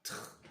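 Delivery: "tr" as a soft consonant blend, no vowel; blended letter sounds. Shown as a demonstration. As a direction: sound out "tr" as one quiet cluster. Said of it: "c'est le R".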